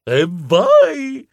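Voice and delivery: a quick burst of delight; enthusiastic. Acted. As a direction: celebrate the lucky find. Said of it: "esclamai entusiasta".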